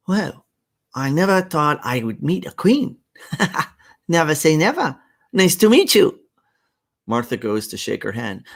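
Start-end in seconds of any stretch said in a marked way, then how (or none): 0.1-6.2 higher, louder put-on Asian accent. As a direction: Martha charmed, in a mild Asian accent. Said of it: "the horrible Asian accent".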